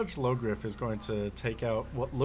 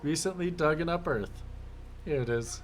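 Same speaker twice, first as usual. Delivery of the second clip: high excited discovery; sudden excited find; excited exclamation; 5 semitones higher than usual. Acted. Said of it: "go like".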